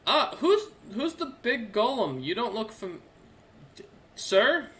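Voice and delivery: put-on high-pitched, chatty young man; young soldier. Young soldier questioning Durmar about the big golem, high and curious. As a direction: pitch it well up, curious and friendly. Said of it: "leans over and goes".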